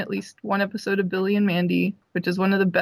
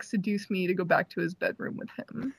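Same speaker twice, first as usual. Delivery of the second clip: usual speaking voice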